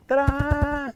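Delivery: a grown man trying to feel manly, Tarzan call; Tarzan cry. Retold or imitated. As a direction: shout it like Tarzan. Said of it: "Like Tarzan".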